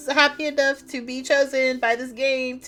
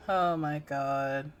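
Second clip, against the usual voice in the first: scared whisper; 6 semitones lower, 6 dB quieter, much slower than usual. Real, not acted. Dreading the monster again.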